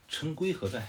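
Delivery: furious general asking where his man is; angry demand. A narrator's reading. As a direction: snap the question out in anger. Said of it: "吕布听了之后特别生气".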